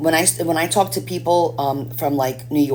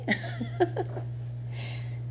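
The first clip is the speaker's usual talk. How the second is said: breathy laugh; 12 dB quieter than usual. Real, not acted. Laughs at own mock accent.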